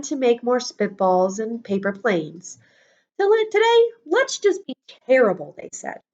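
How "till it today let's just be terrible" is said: put-on high, eager kids plotting mischief; gleeful kids. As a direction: squeal it like kids about to run wild.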